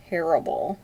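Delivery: a shy little whispered admission; sheepish whisper. Real, not acted. To viewers, admitting her accents are bad, sheepish whisper. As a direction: whisper it, embarrassed.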